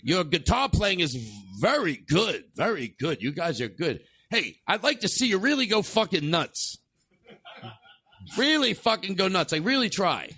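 lightly hammed-up film producer; mild mock audition-director voice; put-on producer voice. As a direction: coach the band like a showbiz director. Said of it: "I'm the producer".

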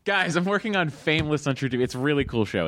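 enthusiastic plug that eases off; excited. Acted. Comedian retrying his scripted show plug for the director, excitedly. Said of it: "he excitedly tells us".

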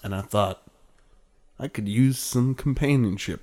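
lightly voiced wistful old cowboy; drawling cowboy musing at sunset. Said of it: "wistful cowboy thing".

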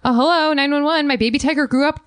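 lightly acted frantic caller; hammed-up phone call to the police; mock 911 call.

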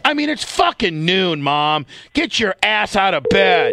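yelling. Real, not acted. Yelling at mom on phone.

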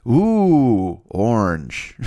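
dazzled "ooh" at the fire; gawking driver. Retold or imitated. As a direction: ogle it like a rubbernecker.

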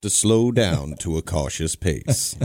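a measured narrator impression, slowing down; Morgan Freeman. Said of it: "I love Morgan Freeman".

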